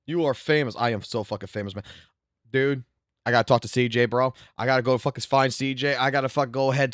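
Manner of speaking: ordinary talk, nothing marked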